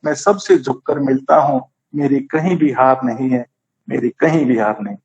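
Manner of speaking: lightly recited verse, rising on "पहले तोलो"; poem recital. Acted. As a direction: read the closing couplet as a poem.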